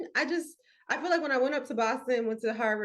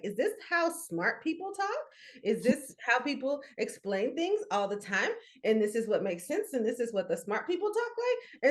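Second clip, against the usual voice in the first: "smart people talk" lifted at the end like a question; questioning lilt up through "explain things all the time"; imitated academic uptalk; 3 semitones higher than usual. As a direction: mimic a classroom explainer, each phrase rising, as on "makes sense". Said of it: "talk like this and use that intonation".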